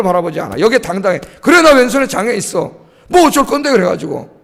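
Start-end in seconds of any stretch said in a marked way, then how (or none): 1.4-3.7 acted bold retort, lifting at the end; bold defiance. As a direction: own up boldly, then challenge. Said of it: "마귀한테 당당하게 이야기하세요". (당당하게 맞받아치듯)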